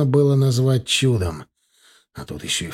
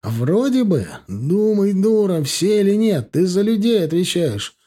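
higher, angry scolding; angry yelling; 6 semitones higher, slower than usual. Acted. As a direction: bark at her in anger. Doctor yells at conductor.

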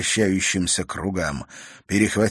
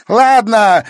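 loud, high furious shout; angry shout; 13 semitones higher, 11 dB louder than usual. A narrator's reading. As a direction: hurl it out in rage. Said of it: "злобно крикнула Клементина".

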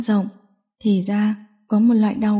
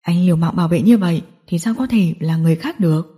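lightly voiced villain, lower pitch; low, taunting gangster voice; villain questioning his captive; 5 semitones lower than usual. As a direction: play the mocking gang boss, low.

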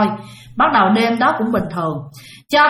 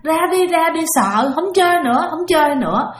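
imitating a scared toddler crying, pitched higher; higher, whiny child's plea, mock crying; 6 semitones higher than usual. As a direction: mimic a frightened little boy begging to stop. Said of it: "nó làm vậy đó".

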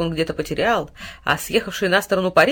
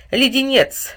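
hissing insult; 6 semitones higher, 4 dB louder, much slower than usual. A narrator's reading. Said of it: "зашипел огонь".

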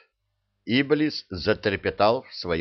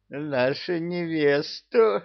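пьяное хихиканье; 9 semitones higher, slower than usual. Acted. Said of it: "пьяно хихикнул Кощей".

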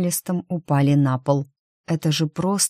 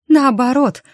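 higher, louder cry while running; emphatic shout; 9 semitones higher, 5 dB louder than usual. A narrator's reading. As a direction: fire back the correction. Бег, героиня возражает брату. (громкий возражающий выкрик)

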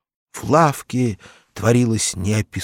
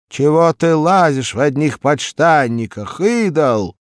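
higher and louder nagging wife; scolding wife; 7 semitones higher, 9 dB louder than usual. A narrator's reading. Marya scolds her husband in his underpants, nagging. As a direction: scold him from the stove. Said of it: "спросил её голосок".

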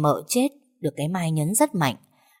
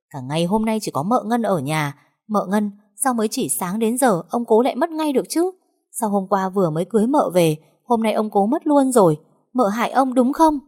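bắt đầu thường rồi cao và to dần; dồn dập buộc tội, càng lúc càng to; gào to hơn; 4 semitones higher than usual. Acted. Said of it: "gào to hơn". (Mai gào to dần buộc tội mợ Ngân)

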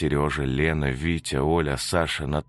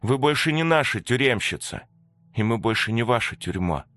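put-on higher, firm ghost-child voices; solemn release; 8 semitones higher than usual. The ghost children free their jailer Antonina, solemn and firm.

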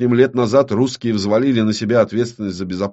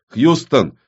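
вызов в рацию; 6 semitones higher, 6 dB louder than usual. Acted. Повторный вызов по рации.

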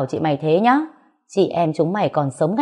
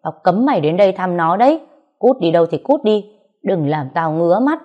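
angry retort. Acted. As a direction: fire it back at him with contempt. Narrator shouts back in quarrel.

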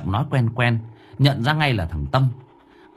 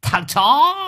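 lamenting wail; 9 semitones higher than usual. A narrator's reading. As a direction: wail then curse him. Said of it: "kêu lên". (cậu Sáu than vãn rồi chửi to)

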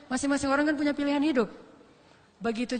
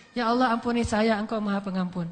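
humble prayer; 4 semitones lower than usual. Shown as a demonstration. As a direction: pray it sincerely, asking forgiveness. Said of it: "Jadi kalau kita bilang".

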